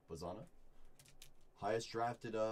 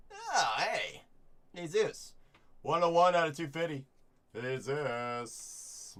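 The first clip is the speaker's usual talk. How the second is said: higher, louder startled exclamations; surprised shout; 5 semitones higher, 8 dB louder, slower than usual. Real, not acted. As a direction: blurt it out at a shock pull. Surprised by big pull.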